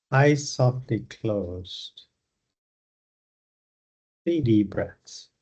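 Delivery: unhurried meditation guidance with long pauses; guided meditation. Acted. Leads a yoga nidra meditation.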